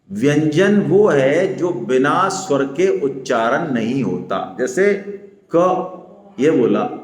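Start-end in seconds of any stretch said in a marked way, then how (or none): 5.5-6.0 क said short, as a bare half consonant; a brief क, not a full का. Shown as a demonstration. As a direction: cut क off with barely a vowel. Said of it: "ये आधा क हुआ".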